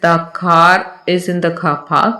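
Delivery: "The car is in the car park" said slowly, linking r in car is; each word spelled out slowly; slow model sentence. Shown as a demonstration. Teacher reading the model sentence slowly to students. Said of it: "तो ऐसे situation में लिखा होता है".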